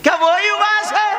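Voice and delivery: high, loud astonished ask; surprised question. Retold or imitated. Aisha surprised to hear Uwais at the door. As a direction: gasp out the question.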